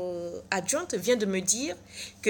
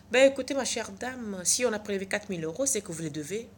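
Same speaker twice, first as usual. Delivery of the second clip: blandly. Retold or imitated. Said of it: "Elle me répond benoîtement".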